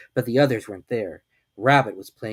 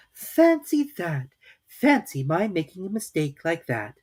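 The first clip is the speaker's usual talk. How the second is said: mock surprise; 7 semitones higher, slower than usual. A narrator's reading.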